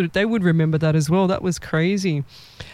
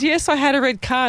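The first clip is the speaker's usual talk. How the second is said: retold exclamation; 6 semitones higher than usual. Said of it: "pretend what she screamed out".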